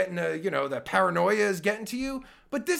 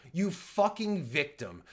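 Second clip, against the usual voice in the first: slow contempt; 2 semitones lower than usual. Real, not acted. Host repeating the insult slowly with scorn. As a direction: drag it out with disdain.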